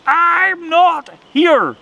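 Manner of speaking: high, loud, eerie howling wind voice; ghostly storm voice. A narrator's reading. The storm wind moaning words at the rabbit, eerie and loud. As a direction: let the wind itself moan the words.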